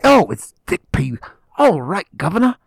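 hammed-up Aussie greeting in an Australian accent, rising to a high "governor". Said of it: "like he's an Australian".

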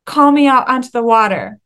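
lightly cheeky, daring request. Acted. Disciple asking Jesus to call him out, cheeky. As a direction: ask boldly, with a touch of cheek. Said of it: "like, cheekiness to be like".

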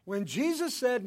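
ordinary talk, nothing marked

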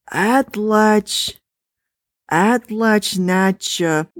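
sounding out Atlach-Natcha haltingly, syllable by syllable; stumbling over "Atlach-, Atlach-, Natcha" in broken pieces; read clumsily. A narrator's reading. Husband sounding out a strange word on the screen, halting. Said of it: "He read the words clumsily as they appeared".

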